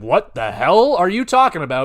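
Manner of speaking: mild mock outrage. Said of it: "freaked the fuck out and said".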